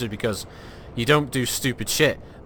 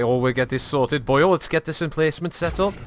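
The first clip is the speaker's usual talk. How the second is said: put-on Welsh accent; 3 semitones higher than usual. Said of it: "all the engineers are Welsh".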